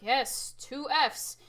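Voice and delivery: loud and eager; proud call for fortissimo; loud cheer. Shown as a demonstration. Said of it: "and we're like".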